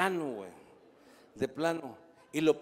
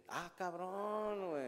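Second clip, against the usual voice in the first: very slow mock surprise; 3 semitones higher, 9 dB quieter, much slower than usual. Dad reacting to son.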